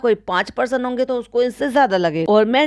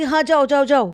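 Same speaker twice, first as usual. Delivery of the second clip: mocking madam; 4 semitones higher than usual. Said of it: "कहती".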